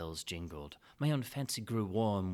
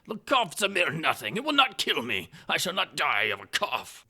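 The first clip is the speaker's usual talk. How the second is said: much higher, much louder incredulous outburst; astonished Fortunato; 7 semitones higher, 9 dB louder than usual. Acted. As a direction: cry out in disbelief, stretching impossible. Fortunato dismisses the cough.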